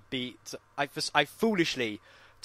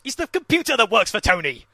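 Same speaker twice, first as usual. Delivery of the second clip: high, louder frustrated explanation; acted-out impatient answer; mock exasperation; 7 semitones higher, 6 dB louder than usual. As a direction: explain it as if to someone hopeless.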